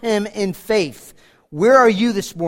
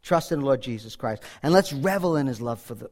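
ordinary talk

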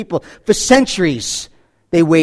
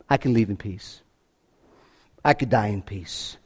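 much lower and softer, at peace; hushed quote; 11 semitones lower, 11 dB quieter than usual. Retold or imitated. Preacher voicing Simeon, very low and hushed. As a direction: let the words sink to a hushed hush. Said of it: "to say with Simeon".

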